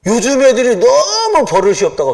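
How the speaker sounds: chuckling through the quote; amused preacher quoting an old complaint, laughing. Retold or imitated. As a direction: read it out with a laugh.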